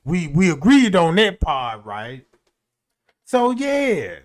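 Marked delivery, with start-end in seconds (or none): 0.0-2.2 imitating the neighbor. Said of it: "he was like".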